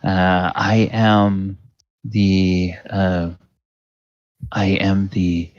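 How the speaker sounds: smooth, courteous boutique greeting; polished saleswoman. Acted. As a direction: welcome the shoppers like a practiced saleswoman. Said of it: "she will say".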